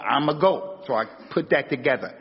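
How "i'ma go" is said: "I'ma go" said as one clipped chunk; Ebonics contraction. Shown as a demonstration. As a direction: swallow the words in "I'ma go". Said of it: "That's all".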